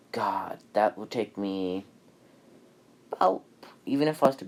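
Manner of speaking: breathy whispered musing; whispered aside. Real, not acted. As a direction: hush it as a private aside. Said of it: "aside about binge time".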